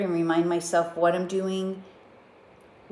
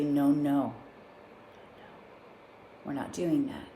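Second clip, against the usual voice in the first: soft, firm, gentle correction; gentle but firm; 4 semitones lower, 7 dB quieter than usual. Retold or imitated. To herself like a parent, gentle but firm. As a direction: calmly stop a child. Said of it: "very gently, very kindly, but very firmly say".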